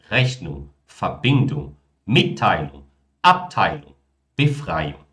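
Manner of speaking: die Rechnung ending in a soft ung, no g; slow demo, ung never stressed. Shown as a demonstration. Teacher showing viewers the weak ung ending. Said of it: "ele nunca é pronunciado forte".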